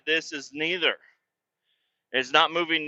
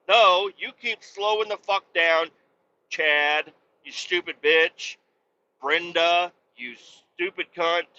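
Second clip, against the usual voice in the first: heated rant; slower than usual. Real, not acted. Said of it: "got a little heated there".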